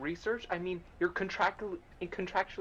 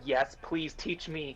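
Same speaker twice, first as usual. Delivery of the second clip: slow eager plea; 5 dB quieter, slower than usual. Acted. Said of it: "She's just nodding her head fervently, just like".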